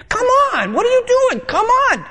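hammed-up high whine; whiny pleading. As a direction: beg the friend in a squeaky high voice. Acted undersharing friend dialogue.

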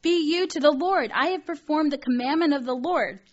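high, loud, smug self-righteous voice; mocking Saul. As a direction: ham up a proud king bragging to the prophet. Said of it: "He's like".

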